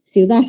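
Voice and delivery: ciudad as ciudá, D dropped; everyday ciudad. Shown as a demonstration. Teacher showing how she really says it. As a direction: say ciudad the way locals do. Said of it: "nosotros decimos".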